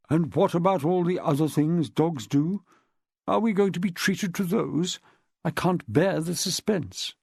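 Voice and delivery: dry sarcasm, slowing at the end; mock suspense, deadpan; sarcastic. Milo's sarcastic retort.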